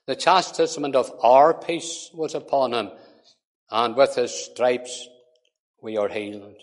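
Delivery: measured, solemn reading of scripture. Acted. Preacher reading Isaiah to the congregation: solemn reading. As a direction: read it out as holy words.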